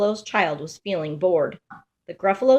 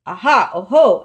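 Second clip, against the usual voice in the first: loud, eager cry of discovery; excited exclamation; 9 dB louder than usual. Acted. Gruffalo's child spots a trail in the snow, loud excited cry. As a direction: call out thrilled at a find.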